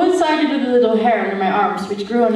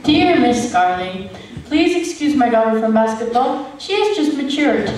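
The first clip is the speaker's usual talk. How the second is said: formal note reading. Acted. Reading out a parent's school note.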